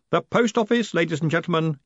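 high, projected showman's address; mild acted yell to a crowd. A narrator's reading. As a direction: proclaim it to the whole hall. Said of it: "yelled Moist".

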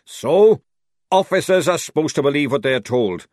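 loud, indignant outburst. Acted. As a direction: bark it in protest. Sergeant indignant.

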